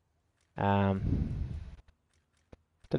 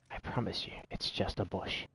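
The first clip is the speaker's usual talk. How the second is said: hushed, very soft fake promise; mock reassurance; 2 semitones lower, 13 dB quieter than usual. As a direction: drop to a near-whisper, coaxing them to believe it. Pretends his tank is a bush.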